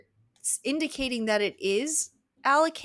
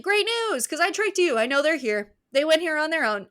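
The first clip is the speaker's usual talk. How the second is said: gloating villain; 6 semitones higher, 5 dB louder than usual. Retold or imitated. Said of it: "he's like".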